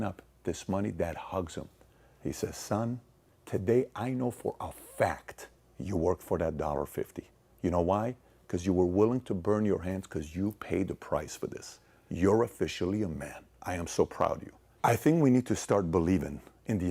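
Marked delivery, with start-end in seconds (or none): 2.6-14.5 softer, lower heartfelt father's praise; father hugging his son, soft and proud; tender father. Retold or imitated. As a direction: speak gently like a proud dad.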